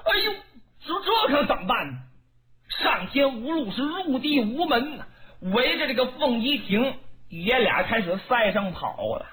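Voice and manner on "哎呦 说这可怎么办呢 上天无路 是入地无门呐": panicked. Acted. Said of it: "可把吕布也给吓坏了".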